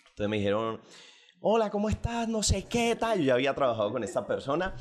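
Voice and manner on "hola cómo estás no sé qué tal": put-on high, lively coastal Colombian accent; playful Colombian coast accent. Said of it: "Eso es acento costeño para los extranjeros".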